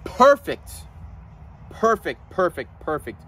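loud, high-pitched awe; awestruck exclamation. Real, not acted. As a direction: burst out in real amazement. Marvels at his favourite tortoise.

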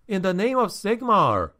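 high-pitched call at narration volume; understated shout, pitched well up; exasperated shout. A narrator's reading. Traveler protesting to the people behind the door, mild shout. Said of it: "Felix shouted".

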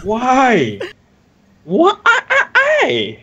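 high-pitched anguished cries; anguished wail. Real, not acted. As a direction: wail in disbelief. Dies to a grenade.

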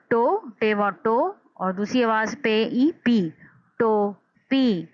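टो and पी named, then टोपी slowly; letter by letter. Shown as a demonstration. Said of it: "टोपी दो आवाज़ों में".

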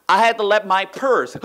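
slow, crying-tinged dismay; mock dismay. Reading the story line with crying mock dismay. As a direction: wail the line slowly in mock distress.

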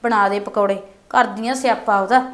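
soft, low muttered complaint under the breath; grumbling aside. Acted. Daughter-in-law grumbling alone in the kitchen, soft and low. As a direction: grumble so the mother-in-law won't hear.

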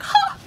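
single spoken "ha"; one short laugh at a joke; little laugh. A narrator's reading. Little hare laughs at her joke, lightly. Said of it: "laughed at her joke".

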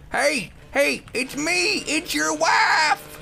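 high, rising shrieked call; put-on wife. Wife hailing her husband, high put-on voice. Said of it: "I don't have a wife!".

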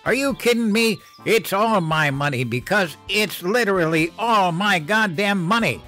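high, loud furious rant; furious yelling. Acted. Mother yelling at unemployed husband, furious. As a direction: tear into him, outraged.

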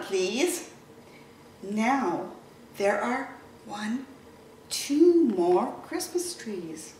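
lively storybook reading; reading to children. Acted. Teacher reading Little Blue Truck to kids, animated storytelling. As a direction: read it to little ones, animated. Reads picture book to children.

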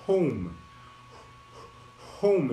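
"Home" after a long puff of breath; exaggerated English H. Shown as a demonstration. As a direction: overdo the breathy h before "Home". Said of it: "Eu tô exagerando aqui".

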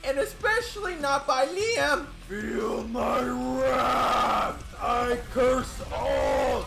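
hammed-up villain voice, high and slow; cackling curse, drawn out and theatrical; evil Stacy. Evil Stacy cursing everyone who rejected her, hammed-up. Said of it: "I am now evil Stacy".

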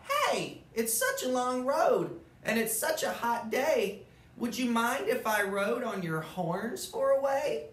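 high little bug voice calling up to the moose. Acted. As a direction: pitch it up like a tiny hitchhiking bug. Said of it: "The bug called out".

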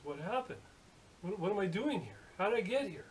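mildly bewildered, as if just coming to; bewildered questioning. Acted. Machinist waking in hospital asks the nurse, bewildered.

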